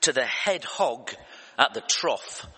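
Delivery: slow, lightly countrified Texan drawl; a half-hearted imitation of a Texan drawl. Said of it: "Texan drawl or something like that".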